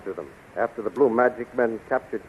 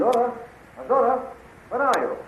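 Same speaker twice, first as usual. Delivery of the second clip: high call from off in the distance; calling from afar; 13 semitones higher, 4 dB quieter than usual. Acted. Flash searches the palace for the queen, calling out from afar. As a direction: call out for her from another room.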